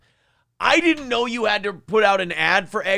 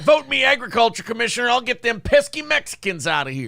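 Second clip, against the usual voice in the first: mock campaign ad; 4 semitones higher than usual. Parody of candidate.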